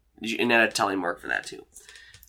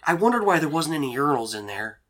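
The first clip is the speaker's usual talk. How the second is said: embarrassed Dean; 5 semitones higher than usual. Acted. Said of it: "he looks so embarrassed".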